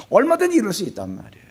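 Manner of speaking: usual speaking voice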